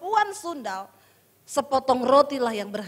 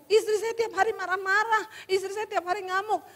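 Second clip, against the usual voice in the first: higher-pitched mock grumble; retold complaint; 4 semitones higher than usual. Straying husband confesses to counselor, complaining about wife. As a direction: imitate a husband airing his grievance.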